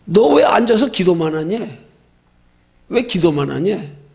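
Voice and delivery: mild scolding, slowing on the repeat; retold divine rebuke. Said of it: "그런 책망 들었어요".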